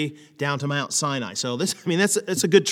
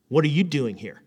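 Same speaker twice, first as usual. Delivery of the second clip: stern parental rebuke; 2 semitones lower than usual. Shown as a demonstration. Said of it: "you walk up to him and you say".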